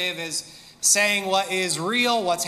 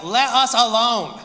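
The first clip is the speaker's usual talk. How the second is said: demon retort; 3 semitones higher, 6 dB louder than usual. Acted. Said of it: "it says something like".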